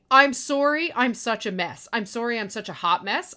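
a light mock of a flustered excuse-maker; mock whiny apology. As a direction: lightly parody the self-pitying apology, "mess" lifted at the end. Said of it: "You will never hear me say".

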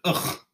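short guttural ugh of disgust; a fed-up grunt from the throat; disgusted groan. Real, not acted. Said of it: "Remember that noise I make now?".

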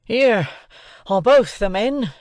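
loud, high, panting slowly. A narrator's reading. Sergeant struggling in the ditch, loud panting call. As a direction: gasp it out loud after the struggle. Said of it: "panted the sergeant".

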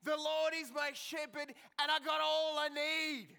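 put-on loud, high, excited little girl shouting; gleeful kid's shout; excited child yelling. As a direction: shout it out like an eager four-year-old. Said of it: "started yelling very, very excitedly".

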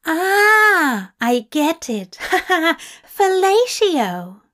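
high, delighted laughing realization. A narrator's reading. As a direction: crow with triumph as it clicks. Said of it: "He laughed, delighted".

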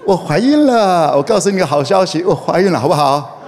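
bright, laughing good-news voice; happy announcement. Shown as a demonstration. Pastor showing girls how to announce pregnancy happily. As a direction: sell it as wonderful news. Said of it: "请用开心的说".

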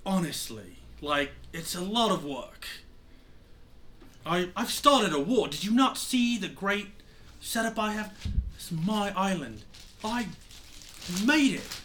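lightly voiced, exasperated mentor pirate; exasperated Lindell. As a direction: scold your former pupil with mild exasperation. Game master plays Lindell scolding the pirate.

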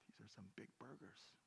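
unvoiced awed whisper. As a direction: marvel at the huge burgers. Daughter awed at burgers.

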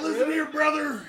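wrestler voice. Acted. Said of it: "You gotta say it in a wrestler voice".

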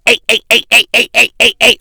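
loud, high repeated hey hey, hammed up; mock rowdy heckling passenger. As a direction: imitate a rowdy guy acting up on a plane. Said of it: "on the plane, acting dumb".

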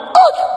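high, loud choked shriek; acted cut-short scream of fright; imitated terrified gasp. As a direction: gasp as the ride drops. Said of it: "And Mariah went".

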